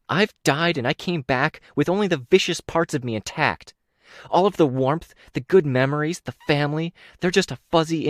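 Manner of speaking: a hint of a proud killer boasting; cold menacing villain. Ashley's threat, narrator reading.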